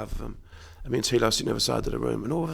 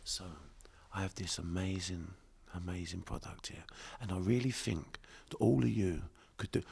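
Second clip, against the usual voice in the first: dropped-down, hushed, low whisper; 4 semitones lower, 8 dB quieter than usual. Retelling how a coworker pitched a product to a crowd: imitating Tilo Weinemann whispering. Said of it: "He just whisper".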